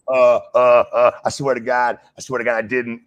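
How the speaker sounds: flustered, stammering plea; panicked denial. Retold or imitated. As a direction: stumble over the words denying it. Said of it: "I was like".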